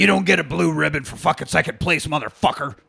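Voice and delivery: light impression of a rowdy buddy; hint of a gravelly party guy; imitating an exuberant friend. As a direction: exuberant barroom pal, mildly put on. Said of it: "talk like this".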